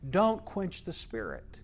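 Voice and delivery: imitating a weeping old missionary begging the church; pleading. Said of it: "he just pleads with the people".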